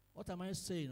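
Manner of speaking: usual speaking voice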